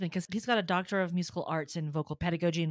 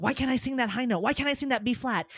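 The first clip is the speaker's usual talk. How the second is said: mildly panicked, pitch lifted; fretting aloud at yourself, a little higher; retold panicky frustration; 4 semitones higher, faster than usual. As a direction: act out a mild singer's panic. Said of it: "I start to panic".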